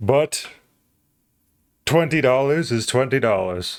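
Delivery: really slow, deliberate, drawn-out word-by-word delivery. Speaking this way for twenty dollars; talking really slow. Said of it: "It kind of hurts my mouth to talk really slow like this".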